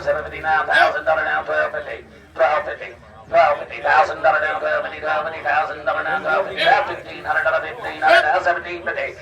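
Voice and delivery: rapid auctioneer bid chant. Real, not acted. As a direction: rattle off the bids like a livestock auctioneer.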